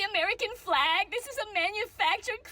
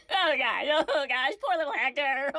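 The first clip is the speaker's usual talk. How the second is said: lower, hammed-up sob with laughter; fake sob laugh; 5 semitones lower than usual. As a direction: overplay grief for Hector.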